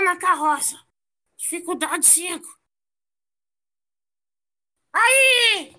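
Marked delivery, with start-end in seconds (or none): 4.9-5.7 high, loud yelp; shout. Real, not acted. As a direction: yelp after a near fall. Near miss on the jump. (grito de susto)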